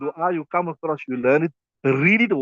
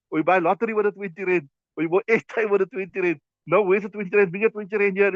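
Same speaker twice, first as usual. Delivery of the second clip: higher, scolding wife demanding the change; mock nagging wife; 4 semitones higher than usual. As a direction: play the wife grilling her husband over the money.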